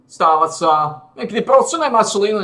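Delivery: frustrated exclaiming. Real, not acted. Frustrated outburst at game result.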